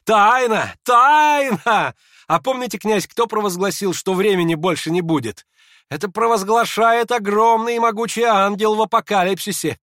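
high, loud, ecstatic declaiming; frenzied high-pitched oratory; wild proclamation. A narrator's reading. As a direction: proclaim it like a feverish prophet. Hippolyte proclaims the mystery wildly.

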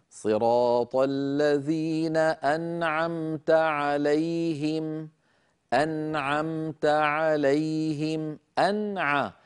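slow melodic recitation, "أنعمت" going straight from noon into ayn; clear izhar. Shown as a demonstration. Teacher demonstrating noon before ayn in "أنعمت", slow chanted izhar. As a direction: chant "أنعمت عليهم" with no extra hum on the noon. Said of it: "انتقلت من النون إلى العين مباشرة".

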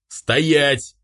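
loud commanding bark; barked order. A narrator's reading. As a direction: stop him dead with one word. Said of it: "рявкнул дед".

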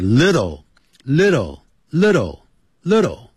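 "little" slowly, with a flapped t and dark l; slow correct little. Shown as a demonstration. 老师放慢示范little. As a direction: drill "little" slowly and evenly. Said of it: "一定要这样子念哦".

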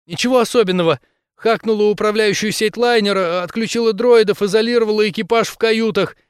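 high, loud, rapid patter; nervous hacker blurting in a rush; rattled off. Acted. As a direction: fire it off in one breath. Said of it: "скороговоркой выпалила Криси".

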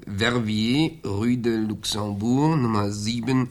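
slow repeating. Acted. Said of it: "Moment, das war".

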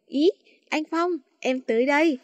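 lightly put-on coy girlish voice; man doing a woman's voice. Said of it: "giả giọng nữ nhi ứa nẹo người".

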